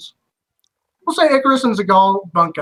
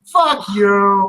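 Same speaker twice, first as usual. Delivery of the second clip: mock Boston; 4 dB louder than usual. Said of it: "obnoxious people from back east".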